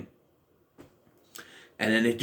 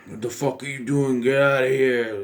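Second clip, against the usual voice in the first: Bruce Willis impression. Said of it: "he kinda sounds like this".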